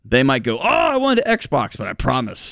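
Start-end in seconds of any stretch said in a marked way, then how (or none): 0.6-1.8 put-on high, drawn-out kid's complaint; mock a let-down kid, pitched way up and dragged out; whining kid. Kid's disappointed reply acted out.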